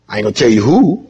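quick, laughing tease; teasing laugh. Real, not acted. Preacher refusing to reveal his vote, laughing tease. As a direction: tease them while laughing.

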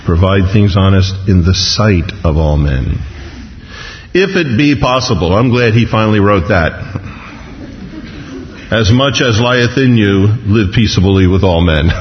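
measured, slowed reading of a Bible verse; scripture reading. Acted. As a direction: read the verse aloud with weight and pauses. Reads scripture slowly.

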